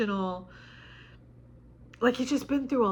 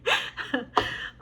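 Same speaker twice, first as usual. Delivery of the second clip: breathy laugh through tears; real laugh-cry between words; high teary chuckle; 6 semitones higher than usual. Real, not acted. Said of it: "why I'm crying".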